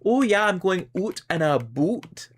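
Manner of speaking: mock Canadian accent. Quoting how Canadians get stereotyped, mock Canadian accent. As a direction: play up the Canadian stereotype lightly. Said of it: "we get stereotyped as saying".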